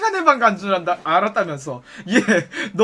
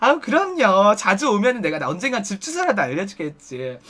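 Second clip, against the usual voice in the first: ordinary talk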